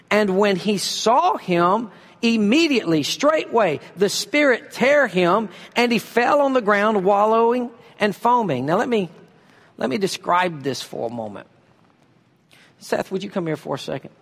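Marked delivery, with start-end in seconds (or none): 0.1-8.7 dramatic scripture reading. Acted. Preacher narrating the boy's seizure to the congregation, dramatic. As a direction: paint the seizure scene for the crowd.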